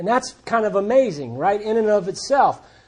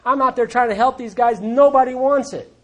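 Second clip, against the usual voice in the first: higher-pitched venting, mildly acted; frustrated; 4 semitones higher than usual. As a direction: complain as if your effort is wasted. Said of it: "He was frustrated".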